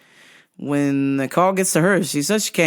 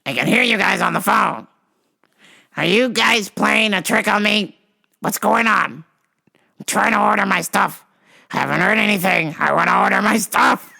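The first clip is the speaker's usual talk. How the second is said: irritated caller; 3 semitones higher than usual. Retold or imitated. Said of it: "She's like".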